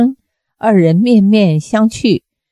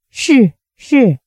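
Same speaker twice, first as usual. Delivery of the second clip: a slightly higher, shaky "是，是"; trembling yes; 4 semitones higher than usual. A narrator's reading. Zu Qianqiu agrees with the old man, lightly trembling. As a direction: agree nervously, voice wavering. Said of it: "声音却也打颤了".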